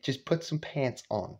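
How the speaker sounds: soft, embarrassed urging under the breath; imitated son quietly talking his mother down; hushed pleading. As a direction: plead discreetly, dropping almost to nothing. Dad pleads discreetly with half-dressed mother.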